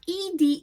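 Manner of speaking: "ed" said as a full separate word, like the name Ed; wrong -ed ending. Shown as a demonstration. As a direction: say "ed" with a clear e, like Eddie. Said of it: "is never pronounced ed".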